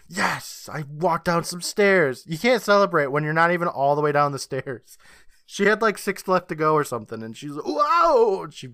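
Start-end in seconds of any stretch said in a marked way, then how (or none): 0.1-2.2 mock triumph. Mocking the girl's celebration. 7.7-8.4 high, loud mock "whoa"; falling yell. Host imitates girl falling six steps up, hammed-up yell.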